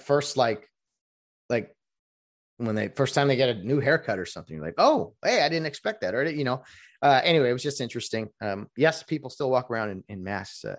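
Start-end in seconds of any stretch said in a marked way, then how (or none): 4.8-6.1 hoher, überraschter Ausruf; surprised high "oh hey". Retold or imitated. Reacting to new haircut.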